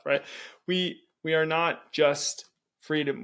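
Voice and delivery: ordinary talk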